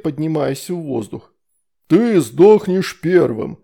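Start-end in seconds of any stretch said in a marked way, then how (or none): 1.9-3.6 slow, louder furious threat; a demon's slow angry threat. A narrator's reading. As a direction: spit it slowly in anger. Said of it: "гневно сощурился Фурундарок".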